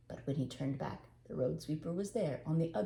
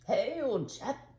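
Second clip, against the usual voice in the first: friendly call; 5 semitones higher, 4 dB louder, slower than usual. Acted. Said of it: "he called out the doorway".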